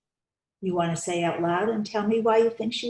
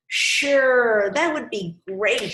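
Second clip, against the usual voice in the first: glad yes; 5 semitones higher, 6 dB louder, slower than usual. Acted. Victor gladly accepts Kendra's company.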